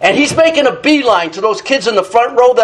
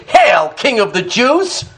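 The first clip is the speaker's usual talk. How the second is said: mockingly. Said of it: "They said mockingly".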